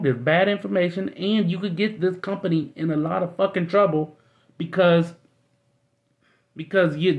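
worked-up rant at Steve, pitched high. Retold or imitated. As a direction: get riled up telling him off. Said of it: "I'm getting fucking worked up".

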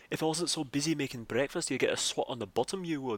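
light mock Scottish brogue; a hint of a Scottish accent; broad Scottish accent. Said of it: "he chuckled in his thick Scottish brogue".

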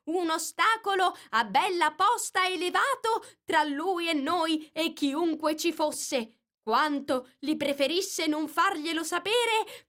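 high, sing-song reading of a poem; rabbit reciting verses. Acted. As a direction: recite the nonsense poem like a nervous herald. Rabbit reads the verses aloud.

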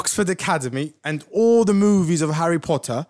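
drawn-out mock British English; put-on British accent. Host jokes about where his accent came from, British accent. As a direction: play up a posh Oxford British accent. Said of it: "This is British accent".

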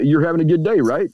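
questioning tone rising at the end; asking, questioning. Shown as a demonstration. Speaker greeting a stranger, asking with a questioning rise. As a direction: ask it as if checking on them. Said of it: "You don't ask them if they're having a good day".

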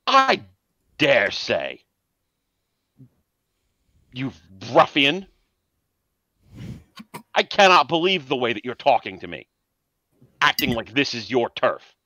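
clutch your pearls like a stuffy aristocrat; posh indignant gent. Acted. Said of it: "looks at Genghis and goes".

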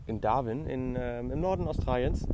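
talking outdoors with wind noise on the mic. Real, not acted. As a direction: wind gusts hitting the earbud mic. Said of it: "sorry für die Windgeräusche".

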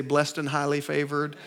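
Christianese response. Retold or imitated. Churchgoer hiding troubles when asked how they're doing, rehearsed. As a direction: toss off the pat churchy reply quietly. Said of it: "they give you this Christianese response".

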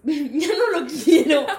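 half-laughing mock wail on the end; mock crying. Embarrassed girl tells cashier never mind, mock crying. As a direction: drag out "quiero", pretending to cry through giggles. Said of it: "Entonces yo empecé a llorar".

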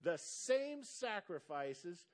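very slow, deliberate reading of each word. Shown as a demonstration. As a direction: read it out slowly for the church. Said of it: "I'm gonna read this real slow".

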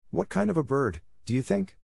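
put-on high, curious boyish question; eager question. A narrator's reading. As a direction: ask with wide-eyed wonder. Boys eagerly ask Nibs.

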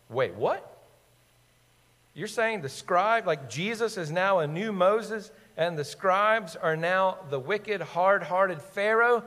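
lightly acted disbelief, rising into questions; slow it down and lift it, as if working out a shocking claim; incredulous readers. Mark's readers reacting to the Moses overtone, mildly incredulous. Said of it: "Mark's readers would have heard and gone".

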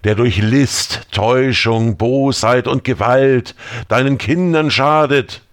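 rising, fervent exorcism prayer; incantatory prayer. Acted. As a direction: pray as if to cast out a demon. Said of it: "Isaaks Worte beschwörend". (beschwörendes Gebet)

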